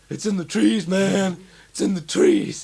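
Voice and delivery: mock panic. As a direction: call it out in fake alarm. Mock quote from the film.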